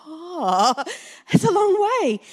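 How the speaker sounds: high, whimpering mock dismay; hammed-up tearful disappointment; mock wail. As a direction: wail it as a half-laughing fake cry. Retold dismay at the far posting.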